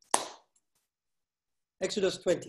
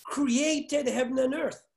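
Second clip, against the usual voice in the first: slow reading; 3 semitones higher, much slower than usual. Shown as a demonstration. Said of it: "give them verse eleven".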